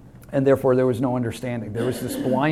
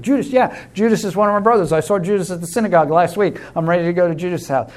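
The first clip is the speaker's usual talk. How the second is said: quick, keen, higher voice, eager to go; eager Ananias; 4 semitones higher, faster than usual. Retold or imitated. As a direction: rattle it off like a keen disciple.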